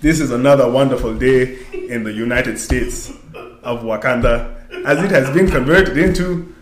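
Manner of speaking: hammed-up stiff proper speech; lightly put-on formal accent; mock Wakandan voice. Host mocks the movie's Wakandan speech, stiff proper voice. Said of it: "I can't do, I can't do it no more".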